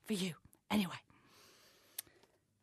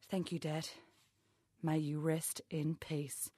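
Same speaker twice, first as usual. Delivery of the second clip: whisper; 7 semitones lower, 12 dB quieter, slower than usual. Acted. Mock tribute to dead father.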